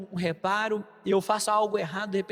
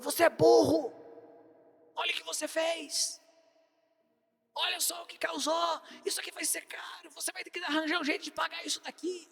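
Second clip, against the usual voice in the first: retold yell, higher, sliding into a hoarse shouted whisper; angry father yelling; 6 semitones higher, 5 dB quieter than usual. Father scolding his son after the truck fell, imitating an angry yell. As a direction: scold the boy like the furious father, pitched up. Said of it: "começou a gritar comigo".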